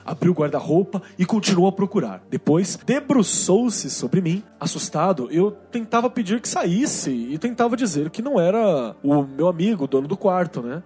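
reading a listener's letter aloud; steady storytelling read; story narration. Acted.

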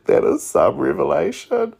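retelling her reaction to a book fact, mock surprised; mock astonishment. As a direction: play up the shock at the discovery. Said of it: "I was like".

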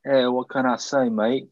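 British attempt sliding into Australian; badly faked British accent. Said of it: "forgotten how to do a British accent".

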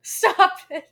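loud high stop it; excited protest. Real, not acted. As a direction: yell stop playfully. Mock protest at gross joke.

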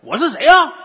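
put-on Northeastern accent. 大帅说东北话.

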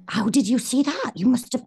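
high startled question; surprised actor. Retold or imitated. Embarrassed actor asking a teen how she saw it, startled. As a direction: caught off guard, a little alarmed. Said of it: "he went".

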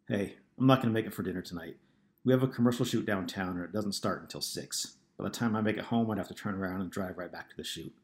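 rushed, all in one breath; quick. Acted. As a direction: get it all out fast. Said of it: "He spoke quickly".

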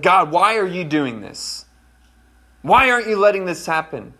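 retold exasperated question to God; mildly frustrated, as if questioning God; frustrated pleading. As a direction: put some complaint into the question. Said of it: "I get frustrated".

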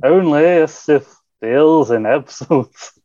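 slow, drawn-out movie-actor read; a lightly hammed slow actor voice; put-on actor voice. Shown as a demonstration. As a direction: stretch it out like a grand actor. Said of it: "I've started doing that voice now".

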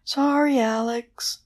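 high wailing apology; high keening banshee, not moaned. A narrator's reading. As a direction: wail it like a banshee. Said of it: "wailed the banshee".

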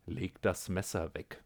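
steady and unhurried, defusing him; calm. Acted. The cat calmly tells the scientist to drop the knife, quiet and steady. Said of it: "sagte die Katze ruhig".

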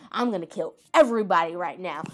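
loud, emphatic mock threat; hammed-up battle vow, punching the words; retold hero's defiant declaration; vengeful anime hero. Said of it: "and he's like".

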